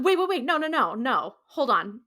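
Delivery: loud, high burst of protest, easing off; imitated alarm. Sam stops Dean raising the knife, mock alarm. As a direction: urgently halt someone, acted out.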